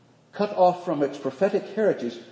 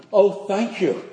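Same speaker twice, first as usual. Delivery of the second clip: bright laughing thank-you, a bit louder; 5 semitones higher, 6 dB louder than usual. Retold or imitated. Thanking the wedding guest for her blunt compliment, laughing. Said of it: "I laughed".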